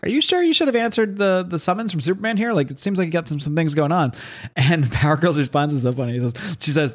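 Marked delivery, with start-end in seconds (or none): 0.0-4.1 high, lightly voiced heroine; a high, concerned take on a heroine; Wonder Woman voice. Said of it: "Wonder Woman shows up and she's like".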